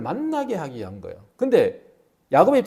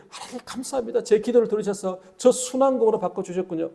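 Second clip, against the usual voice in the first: grateful prayer; 4 semitones higher than usual. Acted. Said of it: "얼마나 감사한지".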